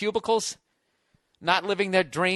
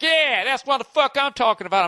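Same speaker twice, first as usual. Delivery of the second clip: redneck cheer; 6 semitones higher than usual. Retold or imitated. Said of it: "and be like".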